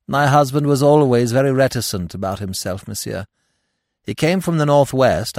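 lightly voiced grieving widow. Widow answers the magistrate.

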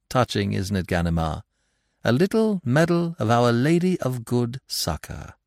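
lightly voiced gentleman thief, amused; a hint of smug teasing charm; Lupin, suave and mocking. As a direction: needle the inspector with easy amusement. Lupin's voice, held through his speech.

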